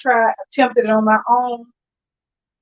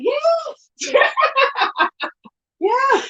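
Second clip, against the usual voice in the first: out of breath; 14 semitones higher than usual. Real, not acted. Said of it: "you really out of breath".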